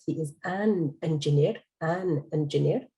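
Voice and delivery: "an" said clearly and drawn out before engineer; stress on "an". Shown as a demonstration. Teacher correcting a student's article, stress on "an". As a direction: repeat it slowly, leaning on "an". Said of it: "يعني مو أي".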